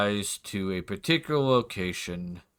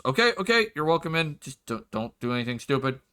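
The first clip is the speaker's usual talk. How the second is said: wary guard; 2 semitones higher, faster than usual. Acted. Guard lets party in.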